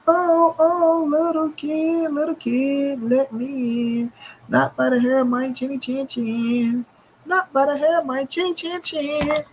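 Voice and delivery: high, sing-song big bad wolf parody; a mock fairy-tale wolf; wolf story voice. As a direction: taunt like the wolf at the door.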